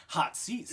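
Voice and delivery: "Hot seats" said with too much effort; overtried pronunciation. Retold or imitated. Reader tripping over an easy name, overtried. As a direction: overdo the sounding-out of "Hot seats". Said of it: "they overtry, they're like".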